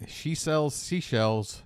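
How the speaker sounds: careful slow enunciation; slow tongue twister. Shown as a demonstration. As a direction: say it slowly and precisely. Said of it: "Do you want me to do it your way or the right way?".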